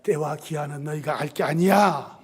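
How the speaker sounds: low, soft, unyielding rebuff; cold dismissal. Acted. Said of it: "참 매정하실 때도 있어요". (낮고 조용하게 매정히 잘라 말하듯)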